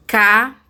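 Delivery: capitão split as ca, pi, tão; long pauses between syllables of capitão. Shown as a demonstration. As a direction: break capitão into three beats. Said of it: "Podemos dividir as palavras em sílabas".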